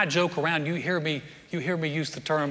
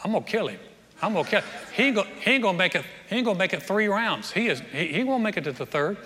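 mock boxer trash talk; 4 semitones higher, faster than usual. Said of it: "they talk like this".

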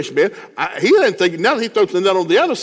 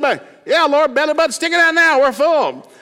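much higher, loud exuberant call; excited yelling; 12 semitones higher, 6 dB louder than usual. Acted. Crowd hollering back to Jesus they are stuffed, high loud joyful shout. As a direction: shout it out happily, belly full.

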